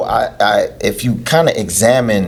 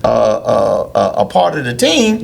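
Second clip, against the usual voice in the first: higher mock voice of a greedy coach; sarcastic trainer voice; 6 semitones higher than usual. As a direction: play the money-hungry trainer, sarcastic. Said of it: "I'm being sarcastic".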